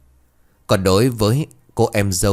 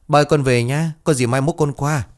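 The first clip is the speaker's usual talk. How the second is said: higher and louder, calling from outside; calling out loudly; 6 semitones higher than usual. A narrator's reading. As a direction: call it out into the house. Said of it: "nói lớn vọng vào". (gọi lớn vọng vào nhà)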